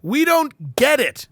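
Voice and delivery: baffled torturer demanding answers; a hint of a bewildered interrogator; mock torturer. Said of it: "the torturers are going".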